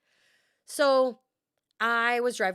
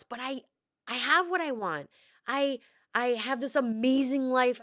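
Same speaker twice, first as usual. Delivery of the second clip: slightly raised, emphatic self-justifying voice; 3 semitones higher than usual. Retold or imitated. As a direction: insist earnestly to a parent. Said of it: "then I would be out loud, like, talking to my mom".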